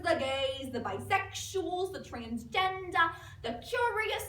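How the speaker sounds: lightly voiced doting mom, stretching key words; a hint of a theatrical mom with swooping pitch; gushing suburban mother. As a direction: play a proud, nervous mother addressing her support group. Monologue as mother Helene Nadler.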